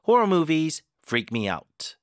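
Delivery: "Horror" and "out" both pressed, slow; teacher reads the whole line with both stresses. Shown as a demonstration. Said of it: "이렇게 힘을 줘서 읽으시면 됩니다".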